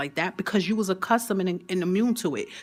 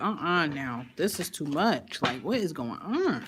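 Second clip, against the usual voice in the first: slow, lower-pitched mock exasperation; over it; 3 semitones lower, 4 dB quieter, slower than usual. Speaker telling Imani how she answers negative thoughts, over it. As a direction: drag it out low, acting mildly fed up. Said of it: "I be over it".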